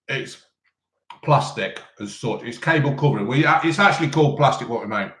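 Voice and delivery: talking through a mouthful of food; words round a bite of kebab; mouth full. Real, not acted. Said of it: "Don't speak with your mouth full".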